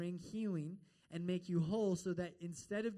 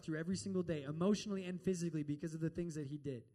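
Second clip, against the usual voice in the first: yelling angrily; 2 semitones higher, 5 dB louder than usual. Retold or imitated. Kay yells at the pastor who asks her to forgive, furious. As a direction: hurl it back at him in outrage. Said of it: "she yelled at him".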